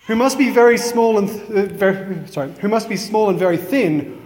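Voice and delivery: put-on lively, measured children's verse recital; poem reading. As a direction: read the rhyme out to listeners, lifting line openings. Reads a poem aloud.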